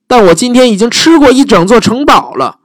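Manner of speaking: high, bored dragon bragging; same lazy brush-off from the dragon; dragon voice repeated. Acted. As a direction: dragon refuses Elizabeth, high and smug.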